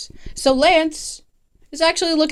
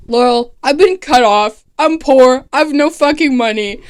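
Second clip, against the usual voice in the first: louder, mock self-pitying whine; whiny complaint; 6 dB louder than usual. Broke rich boy complaining to Laurel, loud whine.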